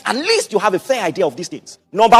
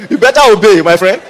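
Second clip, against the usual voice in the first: laughing; 3 semitones lower, 5 dB louder than usual. Real, not acted.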